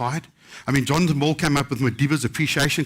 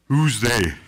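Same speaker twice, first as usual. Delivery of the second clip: lower, commanding call from the dark; a mild echo of a big voice asking who's there; powerful voice; 4 semitones lower than usual. Retold or imitated. Narrator recalls a voice startling him in the hall, lightly voiced. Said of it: "this powerful voice".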